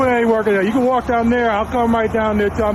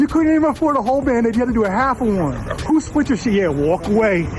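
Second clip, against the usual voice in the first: taunting heckle; 4 semitones higher than usual. Real, not acted.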